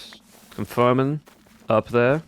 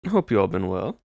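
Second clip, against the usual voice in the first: put-on a mixed Georgia and Texas Southern accent held easily. Streamer chatting to chat in a Southern accent. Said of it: "I've been doing this accent for so long".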